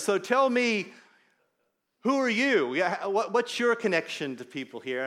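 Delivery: huge biker Tiny confronts the pastor at the party, loud and blunt; big biker questioning. Retold or imitated. Loud, pushy imitation of a bikie grilling a stranger. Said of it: "hands me a beer and says".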